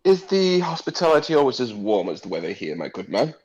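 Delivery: charming noble. Acted. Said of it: "turns to the guard and says".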